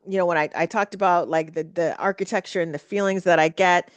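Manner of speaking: ordinary talk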